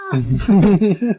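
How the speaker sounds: high, loud, drawn-out mock cry; imitated scream. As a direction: call the hero's name out long and high. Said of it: "she just screams".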